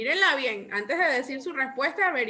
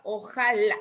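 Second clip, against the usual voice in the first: ojalá with an emphasized final LÁ; ojalá said carefully, weight on the end; stress on ojalá's last syllable; 3 semitones lower than usual. Shown as a demonstration. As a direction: lean on the LÁ ending ojalá. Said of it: "Lleva acento en la última sílaba".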